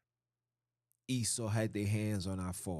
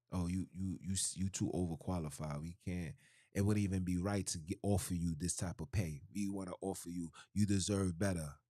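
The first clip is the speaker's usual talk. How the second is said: fake polite interviewer; 3 semitones lower than usual. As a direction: imitate a smooth, insincere hiring manager letting him down. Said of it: "they might say something foolish like".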